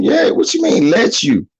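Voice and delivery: high-pitched mock disbelief; incredulous challenge. Challenging a father who says she won't let him, incredulous.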